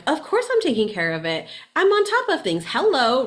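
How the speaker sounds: imagined defensive reply to coworkers, sarcastic and high; mock defensive retort. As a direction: play the snippy comeback she avoided. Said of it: "I could have reacted and been like".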